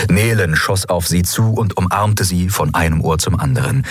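ordinary delivery, nothing marked

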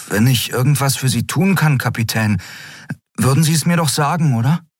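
high, quickening plea; eager young crewman asking; earnest Miko. Acted. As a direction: press the captain kindly. Miko pleads.

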